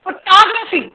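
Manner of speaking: फोटोग्राफी as fuh-TOG-ruh-fee; second-syllable stress. Shown as a demonstration. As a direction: hit TOG, weaken the rest of फोटोग्राफी. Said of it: "stress कहाँ चला गया". (फोटोग्राफी में टॉ पर ज़ोर)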